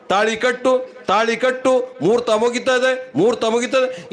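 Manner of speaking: insistent mock-priest urging; hurrying priest. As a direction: imitate a priest rushing the wedding. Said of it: "ಸ್ವಾಮಿ ಅವಸರ ಮಾಡ್ತದ".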